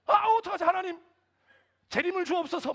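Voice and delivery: high, loud cry to heaven; mortified plea. Retold or imitated. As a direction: wail a desperate prayer out of sheer embarrassment. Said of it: "너무 민망한 거예요". (민망해서 절박하게 부르짖는 기도)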